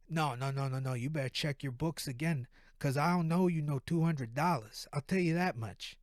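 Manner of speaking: firm East Coast refusal on the phone; East Coast accent. Acted. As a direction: dig in with a lightly put-on East Coast accent. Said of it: "East Coast accent".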